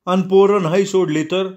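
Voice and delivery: timid, high-pitched nervous question; flustered. Acted. Scared policeman asks Ratni anxiously. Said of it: "कावरा बावरा होऊन म्हणला".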